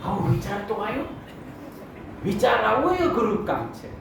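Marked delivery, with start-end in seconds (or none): 0.1-1.0 inner relief. Retold or imitated. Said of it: "મનમાં કીધું કે".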